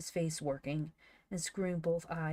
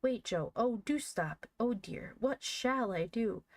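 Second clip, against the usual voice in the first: higher-pitched, distressed exclamations; flustered pleading; 6 semitones higher than usual. A narrator's reading. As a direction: plead anxiously, at a loss. Frightened boy begs sobbing friend.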